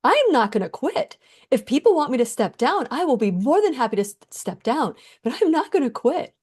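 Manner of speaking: firm, rising refusal to give up; retold defiant vow. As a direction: insist you won't quit. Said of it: "as I'm clearing my eyes, I said".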